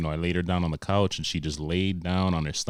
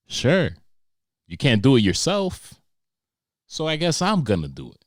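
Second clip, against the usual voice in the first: sarcastic; 7 semitones higher, 7 dB louder than usual. Retold or imitated. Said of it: "dad answering daughter".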